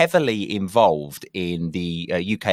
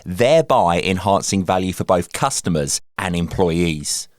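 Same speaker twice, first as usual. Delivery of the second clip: podcast intro read; 3 dB louder than usual. Acted. Podcast intro read over music.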